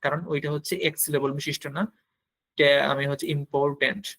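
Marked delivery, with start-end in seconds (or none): 3.4-4.0 "ইম্পর্টেন্ট" broken into its separate syllables. Shown as a demonstration. Teacher showing the word has several syllables, "ইম্পর্টেন্ট" said syllable by syllable. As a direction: sound out "ইম্পর্টেন্ট" one syllable at a time. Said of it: "একের অধিক syllable নিয়ে এটা উচ্চারণ".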